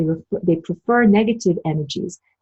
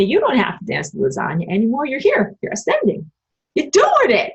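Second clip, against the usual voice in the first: rising to very high, sweet mock praise; sugary mock spirit guides; 6 semitones higher than usual. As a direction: coax her like flattering angels. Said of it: "They told me".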